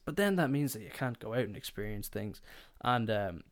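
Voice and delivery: ordinary delivery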